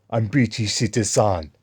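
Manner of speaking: lightly put-on African accent; African-accented mock declaration; imitated African accent. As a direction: mimic the man's African accent, matter-of-fact. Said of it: "black African ... He goes".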